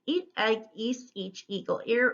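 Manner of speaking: fluency race with no pauses; quick word drill. Shown as a demonstration. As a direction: list rattled off back to back. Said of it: "see if you can say 'em quickly".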